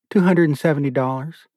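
wife states the savings; Beulah's answer. Acted. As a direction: answer him plainly as Beulah. Beulah answers, Asher repeats.

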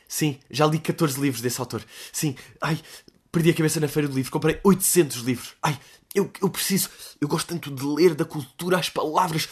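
mock the people who post their books; lightly voiced pretentious reader; parody bookworm. Parodying bookish influencer posts.

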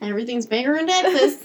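put-on a faint, half-hearted Texas accent. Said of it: "That was my Texas accent".

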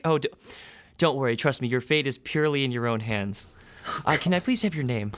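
the bubbly desk clerk greeting new arrivals; receptionist woman. Acted. GM as receptionist welcoming the test subjects, bright and chirpy.

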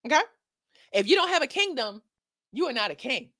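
loud, scolding auntie giving a word; an auntie lecturing the ladies about broke men; sassy auntie. Acted. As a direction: set him straight like a no-nonsense auntie. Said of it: "a word from Auntie Chloe".

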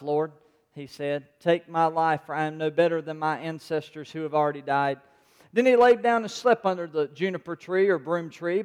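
measured, even Bible reading to the congregation; calm scripture read-aloud. Acted. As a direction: read the passage steadily, like a pastor. Reads First Kings aloud.

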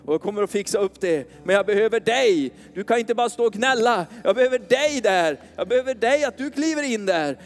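lightly voiced God, reassuring then urging; voicing God. Pastor voicing God to the congregation, lightly reassuring then urging. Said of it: "Där Gud säger".

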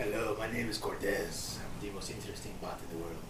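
put-on low, fast, far-off Spanish-accented pitchman voice. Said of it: "I want him to have a Spanish accent".

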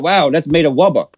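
"wubba" with a w for the r; says w for r. Retold or imitated. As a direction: say "wubba" for rubber, w sound. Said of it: "You said".

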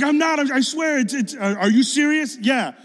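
high, loud insistence; re-enacted astonished back-and-forth; retold excited exchange. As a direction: swear it's true, all worked up. Acting out excited exchange with kid.

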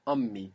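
Ummi with the m held long; doubled m. Shown as a demonstration. Teacher models the double m in Ummi. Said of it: "there's two M's here".

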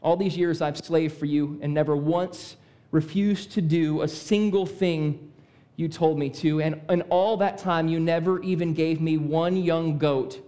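restrained resentment, voice kept low; measured complaint with held-back anger. Acted. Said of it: "first time I read that, I didn't read it as angry".

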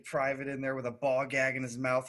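imitating a screaming sergeant. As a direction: build from a grumble to a drill-sergeant shout. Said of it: "Fucking Lilly out there screaming at people".

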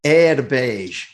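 careful attempt at Scottish vowels; attempted Scottish accent. Shown as a demonstration. Host repeats the phrase for the baffled Scot, attempted Scottish accent. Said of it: "here's my best attempt at, um, Scottish".

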